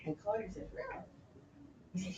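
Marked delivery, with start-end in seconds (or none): 0.7-1.0 surprised. Acted. King responds to Polonius.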